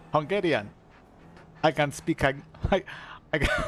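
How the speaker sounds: lightly put-on Hungarian accent. Shown as a demonstration. Streamer showing chat an accent, Hungarian accent. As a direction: tap the r, Hungarian-accented English.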